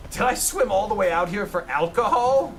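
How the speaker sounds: put-on Irish accent. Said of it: "work on my Irish accent".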